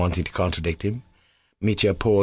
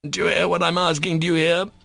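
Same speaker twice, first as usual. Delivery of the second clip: higher, joyful cry; cried with joy; 10 semitones higher than usual. Acted. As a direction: cry it out beaming. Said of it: "he cried".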